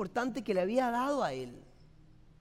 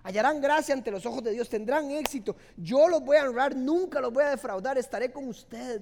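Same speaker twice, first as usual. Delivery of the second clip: loud, higher and fervent divine promise; voicing God's promise; 4 semitones higher, 8 dB louder than usual. Preacher quoting God's promise to the faithful, loud and fervent. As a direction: proclaim it as God's own vow. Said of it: "dice Dios".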